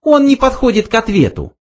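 high little mouse voice; explaining mouse. A narrator's reading. Mouse says the question does not fit, high voice. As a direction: pitch it up like a small creature.

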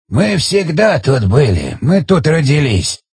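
slow, lightly voiced old man; a hint of an aged speaker; ancient village elder. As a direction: draw the words out as an elder.

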